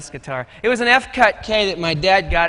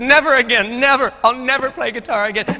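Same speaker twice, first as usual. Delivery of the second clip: dramatic vow; 3 semitones higher than usual. Retold or imitated. Boy quits guitar after failed show, dramatic vow. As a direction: swear it off in retold despair.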